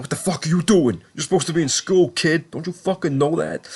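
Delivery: mock Ghost. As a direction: parrot the kid back in a high mocking voice. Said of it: "then Ghost's like".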